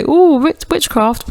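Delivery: mock-spooky witchcraft hoot; spooky mock ooh. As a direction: say it like a cheap horror tease. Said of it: "as if to say".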